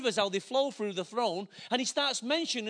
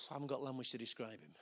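hushed awe; 10 semitones lower, 15 dB quieter, faster than usual. Retold or imitated. Boy overwhelmed describing God.

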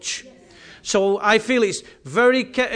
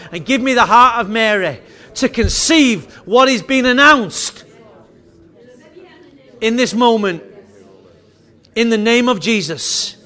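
earnest closing prayer; 2 semitones higher, 6 dB louder than usual. Real, not acted. Prayer swells toward its close.

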